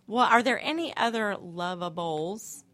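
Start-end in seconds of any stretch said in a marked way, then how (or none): 1.4-2.6 Love a Bowls with each word set apart; precise, separated syllables on Love a Bowls; very enunciated. Real, not acted. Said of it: "I say it very enunciated".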